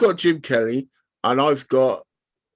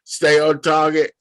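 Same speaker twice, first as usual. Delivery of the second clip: a bit louder, quoting the pilot line; calm pilot urging focus; mild imitation of the Red Leader line; Star Wars pilot; 4 dB louder than usual. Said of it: "That's Star Wars".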